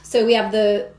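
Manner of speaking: ordinary delivery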